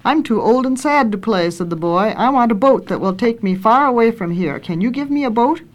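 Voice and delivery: storybook reading with lightly lifted dialogue; story narration. A narrator's reading. Reader tells how the boy grew up, story narration. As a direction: read a children's tale aloud, lifting the questions.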